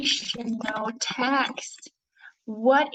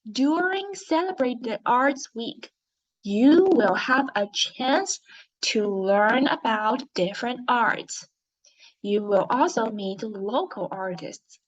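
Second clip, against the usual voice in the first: teacher leading a class read-along, word by word; read-along story narration. Shown as a demonstration. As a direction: read aloud with measured, expressive phrasing. Reads the story aloud with class.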